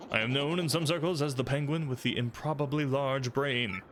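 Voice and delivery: lightly voiced pompous sleuth; a hint of a smug investigator; generic inquisitive detective. Detective penguin lecturing the player, lightly pompous. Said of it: "generic inquisitive person".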